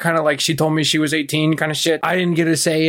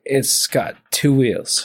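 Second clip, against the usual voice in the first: laughing; much slower than usual. Retold or imitated. Drunk sarcastic reply, laughing.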